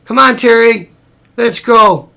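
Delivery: imitated yelling. Rushing Terry along on the beach, mock yelling. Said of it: "put up with me yelling".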